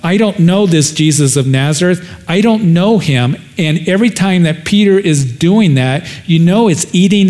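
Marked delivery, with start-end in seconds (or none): 0.0-3.3 cursing denial. Acted. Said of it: "cursing and he's swearing".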